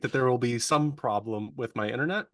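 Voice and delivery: glitchy, robotic call audio. Real, not acted. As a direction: voice warbling through a bad connection. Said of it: "your voice went all robotic".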